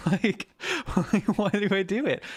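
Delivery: high, squeaky joke voice with laughter; silly put-on voice. Streamer asking why they do these voices, silly high voice. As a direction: pitch it way up, half laughing. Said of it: "any fucking voice other than the one".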